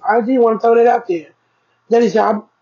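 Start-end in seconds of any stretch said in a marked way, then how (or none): 1.9-2.5 hiccuping mid-sentence; hiccups. Real, not acted. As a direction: caught by a hiccup. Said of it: "Excuse me, I have the hiccups".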